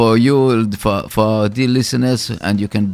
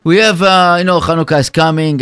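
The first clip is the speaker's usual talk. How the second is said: excited promo; 6 semitones higher, 6 dB louder, faster than usual. Real, not acted. Radio host launching sponsor promo.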